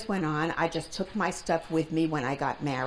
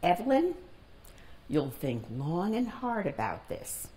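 composed, unhurried retold advice; calm and firm; 3 semitones lower than usual. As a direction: imitate a mother giving firm counsel, settling lower. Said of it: "calmly and firmly says".

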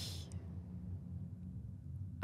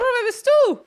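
surprised; 10 semitones higher, 7 dB louder, slower than usual. Acted. Shocked high loud question.

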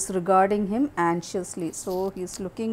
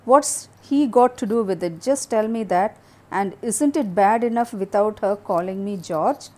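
angry. Acted. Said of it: "So George angrily".

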